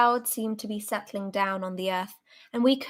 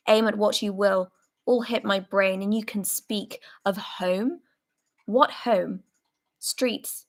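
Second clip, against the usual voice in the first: hoarse, emotional rant. Acted. Soldier raging at comrades who talk of home, hoarse fury. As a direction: spit out the anger and fear. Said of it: "hoarse and quivering with emotion".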